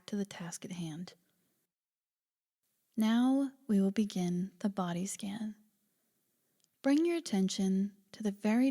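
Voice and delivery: calm, unhurried body-scan guidance; guided meditation. Acted. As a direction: gently lead a listener into relaxation, leaving space between phrases.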